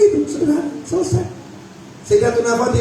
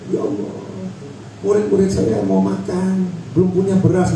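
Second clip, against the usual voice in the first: mock tearful prayer; 3 semitones lower than usual. Shown as a demonstration. Preacher showing how to cry before Allah, mildly tearful plea. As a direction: act out a pleading prayer. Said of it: "kalau mau nangis di hadapan Allah".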